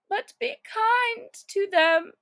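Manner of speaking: put-on high girlish plea; Alice pleading. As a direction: ask gently on the feet's behalf. Alice's voice continues.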